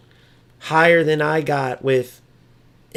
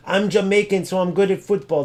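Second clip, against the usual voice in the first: lightly mocking, slightly raised imitation; mocking dumb boast; 4 semitones higher than usual. Streamer mimicking a rival's dumb football comment, mildly mocking. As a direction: imitate a silly boast with mild scorn. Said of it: "when you speak so dumb".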